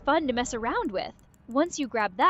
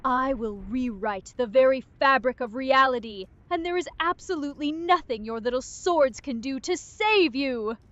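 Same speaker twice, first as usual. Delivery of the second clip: intimidating villain. Pretend. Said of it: "Get more intimidating".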